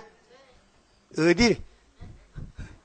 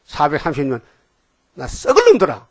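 scolding. Retold or imitated. Preacher voicing God scolding the sinful tribes, mock angry. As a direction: bark it out like an angry father. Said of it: "막 야단치면서".

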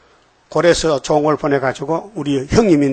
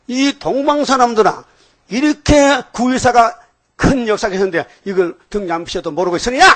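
scolding brothers; 6 semitones higher than usual. Retold or imitated. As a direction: scold the eastern people from up high. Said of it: "막 야단친다는 거예요". (높고 느리게 꾸짖는 목소리)

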